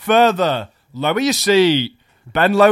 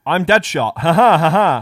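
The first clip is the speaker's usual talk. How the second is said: Will Smith impression; 5 dB louder than usual. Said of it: "was that a Will Smith impression".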